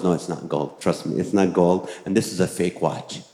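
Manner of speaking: low, dismissive jeweler; a hint of a blunt jeweler setting him straight; lightly voiced jeweler. Jeweler tells the husband the gold watch is fake, low and dismissive.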